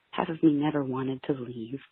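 ordinary talk

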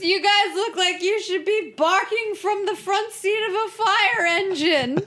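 laughing through the words, high-pitched. Retold or imitated. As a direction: crack up while saying it. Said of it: "And then she goes".

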